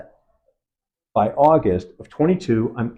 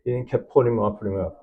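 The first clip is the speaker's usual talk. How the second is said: ordinary talk, nothing marked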